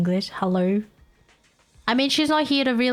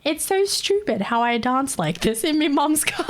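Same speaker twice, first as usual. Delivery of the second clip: laughing mock quote; 6 semitones higher than usual. Mocking video laughing.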